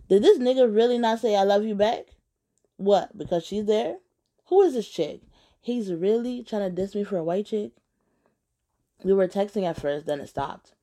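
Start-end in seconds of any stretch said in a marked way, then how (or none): 0.1-7.7 indignant, pitch jumping up; incredulous, affronted questioning; outraged disbelief. Acted. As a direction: react like you've been dissed. Outraged reaction after the call.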